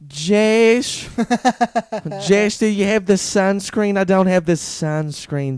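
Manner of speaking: put-on high, loud, drawn-out Jewish mom accent; stereotypical Jewish accent. Pretend Jewish mom calls son about sunscreen, hammed-up accent. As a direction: ham up a Jewish mother calling her son. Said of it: "such a Jew accent".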